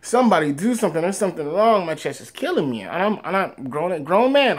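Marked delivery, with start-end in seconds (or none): 0.0-2.8 mild mock wail, pitched higher; half-acted crying in pain; retold crying plea. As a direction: imitate a pained, tearful plea for help. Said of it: "I'm crying like".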